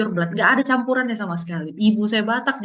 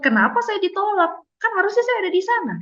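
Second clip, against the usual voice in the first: higher, aggrieved plea; the sadness emotion complaining it was shut out, pitched up; upset emotion; 10 semitones higher than usual. Acted. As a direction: voice the rejected feeling, hurt and annoyed. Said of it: "Dia sendiri juga kesel".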